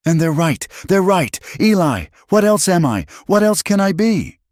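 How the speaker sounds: high, tearful, desperate voice; a woman breaking down over a cruel word; distraught young woman. Acted. Alina tells Eli what the men called her, high and distraught.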